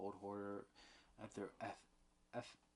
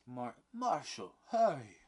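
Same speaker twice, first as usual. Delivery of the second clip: loud high call for the marshal; very loud urgent shout; calling down the corridor; 4 semitones higher, 13 dB louder than usual. A narrator's reading. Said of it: "calls down in the corridor".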